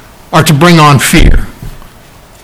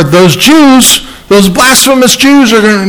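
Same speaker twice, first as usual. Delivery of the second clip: high-pitched hypothetical quote in a put-on voice; acted, high mock accusation; mock alarm; 7 semitones higher than usual. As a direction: pitch it way up as a mistaken claim. Voices a second rejected reading.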